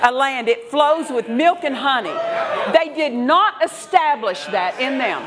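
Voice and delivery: rising, insistent preacher's cadence; preaching. Acted. Pastor preaching to the congregation, fervent and rhythmic. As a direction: drive each phrase home to the congregation.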